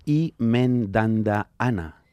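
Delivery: lento, marciano solemne; voz de marciano. Shown as a demonstration. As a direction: habla como un extraterrestre. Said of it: "un poco con voz de marciano". (voz de marciano lenta)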